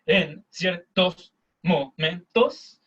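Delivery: slow, syllable-by-syllable push from the belly; pushed stronger. Shown as a demonstration. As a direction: push each syllable out slowly. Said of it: "la voz te está saliendo un poco más fuerte".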